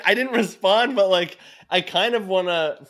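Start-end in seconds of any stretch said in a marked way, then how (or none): none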